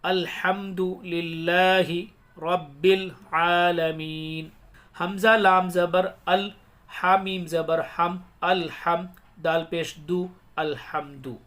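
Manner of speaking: slow, measured syllable-by-syllable chant; elongated Arabic recitation for learners; Quran spelling recitation. Shown as a demonstration. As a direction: spell out each syllable, then recite it joined, long vowels held. Hijja spelling and recitation demo.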